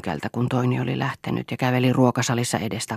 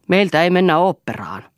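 raised, higher, forbidding voice; angry shout; 5 semitones higher, 6 dB louder than usual. A narrator's reading. Eero forbidding Lea the opera, shouting. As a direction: lay down the law loudly. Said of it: "huusi Eero".

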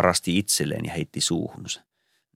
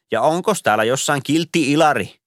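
higher, singsong Santa question; jolly Santa call; 8 semitones higher, 4 dB louder than usual. A narrator's reading. Santa resuming present handout, higher and singsong. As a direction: call out like a department-store Santa. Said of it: "Santa's ritual question".

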